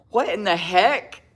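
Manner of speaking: slow, disbelieving outburst; can't believe the label; amused shock at the name; incredulous. Real, not acted. Reading the shade name Crack On.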